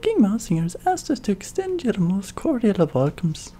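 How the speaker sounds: mousy voice. Acted. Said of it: "I'm trying to be like a mousy voice".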